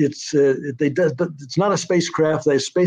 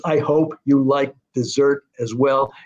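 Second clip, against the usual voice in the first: weak-strong beat, stressing HOPE, LIKE, SERT and WELL in "I hope you like dessert as well"; measured scansion of "I hope you like dessert as well", every second syllable stressed; iambic stress. Shown as a demonstration. Writer quoting her reply to show the meter, iambic stress. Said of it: "It's all in iambic".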